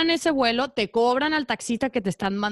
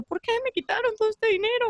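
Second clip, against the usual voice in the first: high, whiny mock lament; high plaintive mock cry over lost money; near-crying whine; 11 semitones higher than usual. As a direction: whimper it like a cheated girl close to tears. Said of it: "muy triste, casi llorando".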